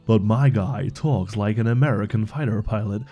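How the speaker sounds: American fighter pilot. Retold or imitated. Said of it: "that was me doing, uh, impression of an American".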